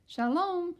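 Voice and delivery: high, loud called-out greeting. Acted. Missus Rosen greeting the children, calling high and loud. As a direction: call out a friendly shalom. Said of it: "says Missus Rosen".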